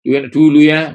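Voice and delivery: loud, high wistful sigh; mock the nostalgic Israelites; imitating a wistful 'enak dulu ya'; longing for the past. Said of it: "Nah, itu".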